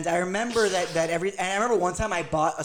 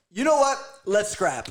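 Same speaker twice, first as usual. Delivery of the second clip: fired up; 5 semitones higher, 3 dB louder, slower than usual. Retold or imitated. Retold fight challenge.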